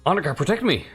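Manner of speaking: shouted call to the guards; calling for help. Acted. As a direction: cry out for protection. Character cries for guards.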